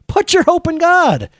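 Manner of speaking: high, drawn-out self-exhortation; David exhorting himself. Acted. David answers David in the psalm, high emphatic exhortation. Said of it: "David says to David".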